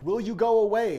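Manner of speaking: very high, loud shout to drive him off; yelling back. Retold or imitated. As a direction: shout him away from the door.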